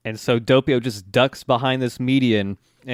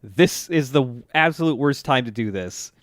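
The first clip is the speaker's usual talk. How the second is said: higher-pitched mock outburst, easing off; mock scream into phone; 3 semitones higher than usual. Doppio screaming into his phone at the caller, mock yell. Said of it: "just screams into it".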